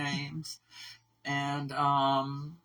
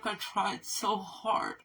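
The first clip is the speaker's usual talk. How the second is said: tearful; 4 semitones higher, slower than usual. Real, not acted. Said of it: "I'm breaking down in tears".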